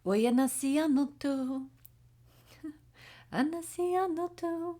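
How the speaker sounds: high, sung-out echoing call; canyon echo call. Retold or imitated. Reader imitates someone yelling into a canyon, echo call. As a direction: imitate calling across a canyon, high and carrying. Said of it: "that echo, like, um, the, somebody yells into a canyon".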